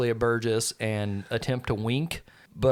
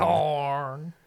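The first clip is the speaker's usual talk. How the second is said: slow, level creature speech; simple creature naming things word by word; drawn-out broken English in a put-on voice; Belle's voice. Belle asks for corn.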